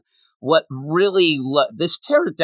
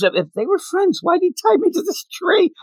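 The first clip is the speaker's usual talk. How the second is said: high-pitched, puzzled innocent voice; mock bewilderment. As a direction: climb higher as you act baffled. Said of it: "he doesn't understand why".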